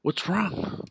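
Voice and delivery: high, loud whiny imitation of the sister; hammed-up teary sister voice; mock sister crying. Imitating his tearful sister when he confronts her, high and whiny. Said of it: "she starts crying and she's just like".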